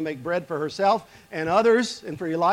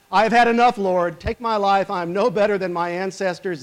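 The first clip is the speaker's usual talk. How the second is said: loud, pleading cry of despair; anguished plea; 2 semitones higher, 6 dB louder than usual. Acted. Exhausted prophet crying out to God, loud and pleading. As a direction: Elijah begging God to take his life.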